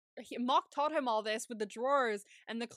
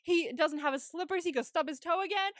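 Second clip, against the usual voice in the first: heated rant; 5 semitones higher, 3 dB louder than usual. Real, not acted.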